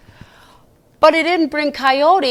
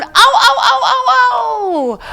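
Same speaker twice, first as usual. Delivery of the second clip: coyote yips; 10 semitones higher, 6 dB louder than usual. Acted. Coyotes howling at the moon.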